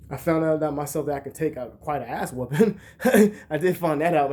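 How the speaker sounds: chuckling through the words; laughing. Real, not acted. Vlogger laughing about surviving an ass whooping, chuckling. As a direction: laugh it off while telling it.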